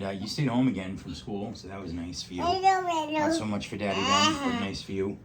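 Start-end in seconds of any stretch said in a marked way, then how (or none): 2.4-5.2 high mock sob; mock crying. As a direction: whine it like a fake cry. Self-pity joke.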